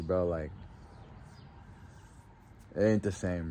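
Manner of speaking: soft, heavy-hearted memorial words; grieving tribute. Real, not acted. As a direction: speak to a lost friend, low. Emotional tribute to late friend.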